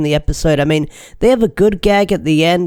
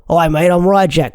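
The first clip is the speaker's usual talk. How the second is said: mock Cockney accent. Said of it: "'cause I'm Cockney".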